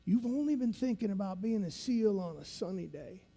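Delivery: lightly imitated veteran instructor, deliberate with long pauses; instructor's voice. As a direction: lecture recruits in the old instructor's measured manner. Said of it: "he talks like this".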